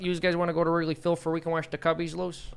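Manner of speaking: put-on Chicago accent. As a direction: invite someone like a Chicago local. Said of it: "please do your Chicago accents".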